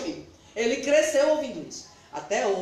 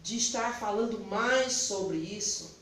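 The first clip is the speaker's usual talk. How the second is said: quiet prayer; 6 semitones lower, 6 dB quieter than usual. Retold or imitated. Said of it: "eu disse assim".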